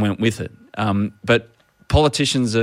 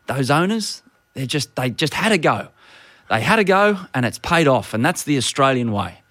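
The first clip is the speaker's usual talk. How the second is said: imitating Scott Morrison; 5 semitones higher than usual. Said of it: "starts talking about Winks and saying".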